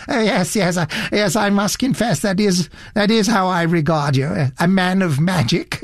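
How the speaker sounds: a hint of a fussy elderly gent, curious; fussy gentleman. Satterthwaite eager confession.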